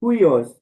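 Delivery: हुइयोस, rough breathing h before the diphthong; Greek pronunciation. Shown as a demonstration. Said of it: "इसको क्या बोलेंगे".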